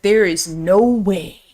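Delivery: drawn-out mock sheriff voice; imitated sheriff. Sheriff disowning his son, slow mock disbelief. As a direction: stretch it out like a disbelieving movie dad. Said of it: "He's like".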